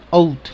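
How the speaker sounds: "out" with O and U run together; joined vowels. Shown as a demonstration. Teacher shows how O U is joined, "out" as one sound. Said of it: "se dice unida".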